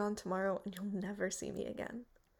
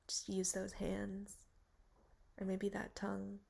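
sultry; 6 dB quieter than usual. Acted. Seductive proposition in bar.

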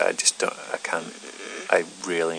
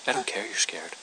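menacing whisper; 3 semitones higher, 5 dB quieter than usual. Acted.

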